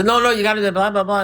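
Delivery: high, urgent attempt to cut in; mock interjection. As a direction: act out butting in on a nonstop talker. Interrupting a nonstop talker.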